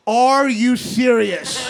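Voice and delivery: slow, drawn-out disbelief; sneering "are you serious"; mock incredulous. Young commenters mocking the comedian, slow disbelief. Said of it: "young people have commented".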